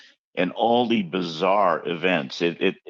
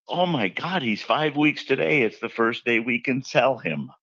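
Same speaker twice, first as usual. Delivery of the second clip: higher, eager young clerk voice, lightly played; imitating the zoo girl; 5 semitones higher than usual. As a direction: voice the excited shop girl. Zoo clerk voiced in retold story.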